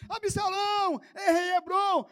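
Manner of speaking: high, loud bystander's chant; ringing acted shout; joining the shouting. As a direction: take up the crowd's cry. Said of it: "eu vou gritar também".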